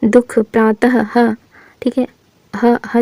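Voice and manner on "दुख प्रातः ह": प्रातः ends in a clear breathy ह, spoken slowly; slow, let the ह of प्रातः breathe out; stressed h sound. Shown as a demonstration. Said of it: "ह का उच्चारण जैसे होता है". (ह की साफ़ ध्वनि के साथ धीरे-धीरे)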